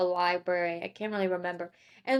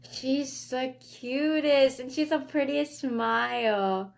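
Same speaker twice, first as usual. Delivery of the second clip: cooing; 3 semitones higher, slower than usual. Real, not acted. Cooing at the child.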